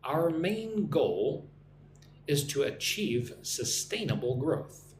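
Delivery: slow model reading. Shown as a demonstration. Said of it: "Listen and repeat after me".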